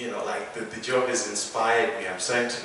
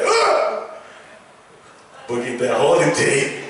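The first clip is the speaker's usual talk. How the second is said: mock parental threat; 2 semitones higher, 6 dB louder than usual. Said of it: "go on the laptop like".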